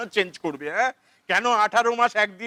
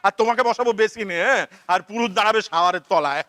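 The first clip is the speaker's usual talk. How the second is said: bellowing like a bull; 4 semitones higher than usual. Acted. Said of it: "তুমি ষাঁড়ের মতো চেঁচাচ্ছ কেন".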